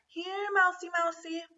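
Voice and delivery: high sing-song call for the mouse. A narrator's reading. Lena calling for the missing mouse, high calling out. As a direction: call out to a hidden pet again. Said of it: "called Lena".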